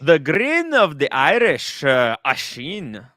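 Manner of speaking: put-on a faint, slow try at an Irish accent; a lightly done Irish accent intro; half-hearted Irish accent. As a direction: drawl the welcome with barely an Irish lilt. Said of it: "say that in Irish accent".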